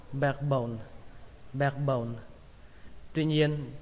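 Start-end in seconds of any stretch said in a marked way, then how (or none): 0.1-2.1 "backbone" run together as "bekbone"; "backbone" linked, first vowel like E, k skimmed; joined-up E-like vowel. Shown as a demonstration. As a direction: say "backbone" as one word with A leaning to E. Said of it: "Đọc nhanh là".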